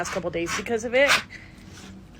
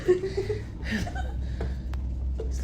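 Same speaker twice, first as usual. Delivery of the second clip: laugh; 12 semitones higher than usual. Real, not acted. Shaken after the scare.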